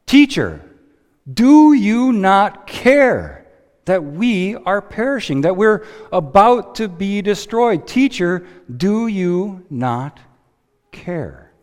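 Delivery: high, slow, desperate cry to the teacher; pleading disciples. Acted. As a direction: beg him to wake and care. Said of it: "to question Jesus".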